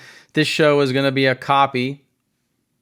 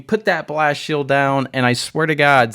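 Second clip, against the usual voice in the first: ordinary talk, nothing marked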